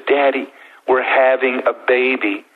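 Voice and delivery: smiling daughter. Retold or imitated. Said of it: "she gets this big smile on her face".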